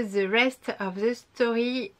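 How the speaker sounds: The Rest of the Story in a French accent, slowly; French-accented English. Real, not acted. Naming an English book title for viewers, French-accented English. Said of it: "désolée pour mon accent anglais".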